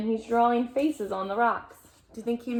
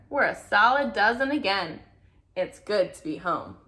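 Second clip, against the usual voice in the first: put-on lively read-aloud to a child; storybook reading voice; story narration. A narrator's reading. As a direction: read it like a bedtime picture book. Reading picture book aloud.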